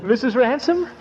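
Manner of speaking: high, courtly self-introduction; gallant charm. Acted. Uncle presenting himself to the pretty widow, courtly and high. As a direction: puff up and charm the lady.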